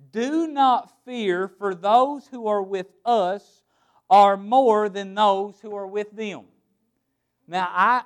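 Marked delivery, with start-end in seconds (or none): 0.1-6.5 slow, steady reassurance; calm reassurance. Acted. Elisha calming his frightened servant, slow and sure. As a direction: settle his fear slowly.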